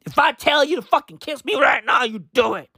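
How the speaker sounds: imitated bossy command; a rapper. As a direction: order a partner about like an arrogant star. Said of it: "the way that he talks to J T is just appalling".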